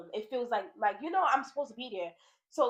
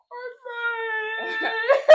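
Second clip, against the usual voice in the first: higher and louder, breaking into laughter as she says it; laughing through it; 11 semitones higher, 7 dB louder than usual. Real, not acted. Telling her friend about her heartbreak, laughing. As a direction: giggle out the word heartbreak, half embarrassed. Admits church began with heartbreak.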